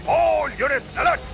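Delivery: urgent call. Acted. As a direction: push all units alert harder the second time. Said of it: "Roger, all units alert".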